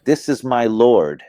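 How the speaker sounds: reproachful, rejecting tone; rebuking question. Shown as a demonstration. Abraham questioning his star-worshipping people, reproachful rebuke. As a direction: challenge them with the words. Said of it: "a question, a rejection, and even a rebuke".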